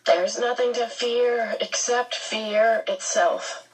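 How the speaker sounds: slow, lightly put-on quoting voice. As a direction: recite it slowly like a quote. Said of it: "I'm quoting, like Missus Who".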